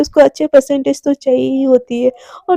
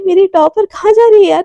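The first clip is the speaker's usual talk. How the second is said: teasing; 5 semitones higher, 4 dB louder than usual. Retold or imitated. Neha teases Radhika.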